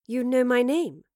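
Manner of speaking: puzzled question, rising; quizzical, a little taken aback. A narrator's reading. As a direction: ask it in mild surprise. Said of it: "asked Jane with a quizzical look".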